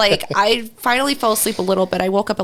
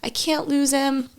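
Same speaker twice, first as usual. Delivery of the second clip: higher, hushed pleading; retold tearful plea; 7 semitones higher than usual. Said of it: "and we're just crying".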